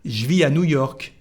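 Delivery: "je vis à" contracted to "zhvee ah"; "je vis" as one syllable, unlinked to "à"; no liaison. Shown as a demonstration. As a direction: keep the S of "vis" silent before "à". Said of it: "So the whole sentence is".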